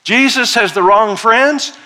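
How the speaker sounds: hammed-up scandalized accusation; accusing Pharisee. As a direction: call out the charge like an outraged critic. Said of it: "are mumbling and grumbling".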